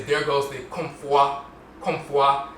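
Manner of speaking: There goes the Komfwa, with fwa clearly gliding; Asante speaker. Retold or imitated. Teacher voicing an Asante onlooker, Komfwa. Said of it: "An Asante person would say".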